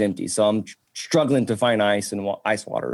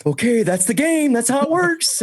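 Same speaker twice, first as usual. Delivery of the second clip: mock resigned self; 14 semitones higher than usual. His resigned reply, retold.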